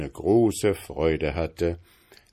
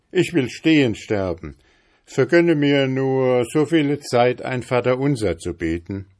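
higher, louder, earnest plea; steady young journeyman; 6 semitones higher, 5 dB louder than usual. A narrator's reading. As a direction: ask for time to pray. Journeyman answers facing death.

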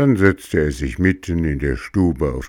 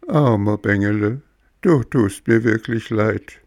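pitying cricket; 5 semitones higher than usual. Acted. Cricket pities puppet.

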